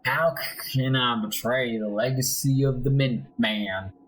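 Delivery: lightly acted guilt-ridden confession; a touch of dramatic shame; self-reproaching soldier. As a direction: condemn yourself as a disgraced patriot. The speaker condemns himself in game.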